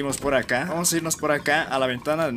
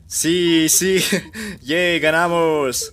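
cheering; 3 semitones higher, 6 dB louder, much slower than usual. Real, not acted. Celebrating winning the game.

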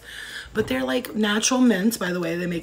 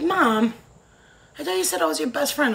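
imitating daughter; 8 semitones higher than usual. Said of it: "she's like".

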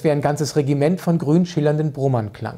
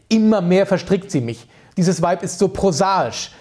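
scolding; 4 semitones higher, 3 dB louder than usual. Acted. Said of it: "schimpfte er".

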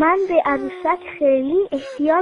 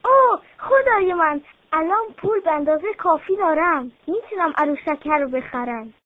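happy exclamation. Acted. Girl counting her savings, overjoyed. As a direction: gasp out the good news, then settle. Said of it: "با خوشحالی گفت".

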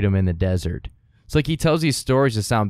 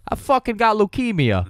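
mock sick plea; 10 semitones higher than usual. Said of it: "she'd be like".

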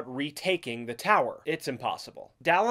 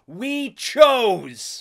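lantang, higher shouted declaration; 7 semitones higher, 9 dB louder than usual. A narrator's reading. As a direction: shout it out loud and high. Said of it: "she finally shouts".

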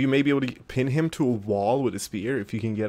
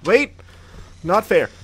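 loud protest; 9 semitones higher, 10 dB louder than usual. Real, not acted. Frustrated outburst at game.

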